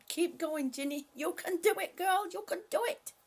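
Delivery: root for her like a friend; cheering on a viewer with a sore chest. Real, not acted.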